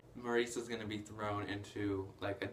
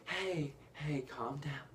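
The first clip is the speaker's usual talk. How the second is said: retold soothing; 4 semitones higher, slower than usual. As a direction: imitate a placating sidekick. LeFou soothing Gaston in retold scene.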